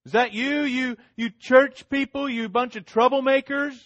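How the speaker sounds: high, loud mocking accusation; accusing crowd. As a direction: point the finger at the church, taunting. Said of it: "they're gonna say".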